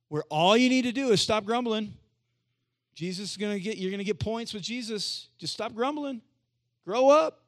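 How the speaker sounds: high-pitched preachy scolding, ending in a loud burst; hammed-up lecture that climbs in pitch; mock moralizing. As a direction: scold them in mock exasperation, rising to a shout.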